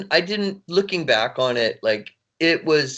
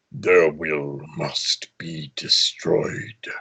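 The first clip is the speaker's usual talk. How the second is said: very low, slow, menacing; deep slow menacing decree; evil quiet villain; 7 semitones lower, much slower than usual. Shown as a demonstration. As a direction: let it rumble out slow and deep. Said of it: "evil quiet".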